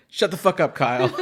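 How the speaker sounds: retold telling-off. Rebecca silencing Kyle over the boyfriend question, mock angry. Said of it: "then she gets to deliver".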